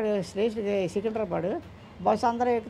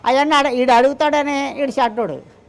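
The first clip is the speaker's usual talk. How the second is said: loud indignant; 6 dB louder than usual. Real, not acted. Father defending son, indignant.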